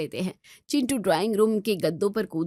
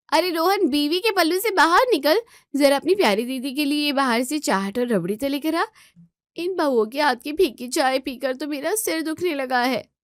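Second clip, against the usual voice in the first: bossy demand; 5 semitones higher than usual. Acted. Neelam bossing her brother.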